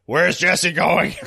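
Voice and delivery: slow, stretched-out demand; Tran's question. Retold or imitated. Acting out Tran's question for the co-hosts, slow demand. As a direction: ask it drawn out, puzzled.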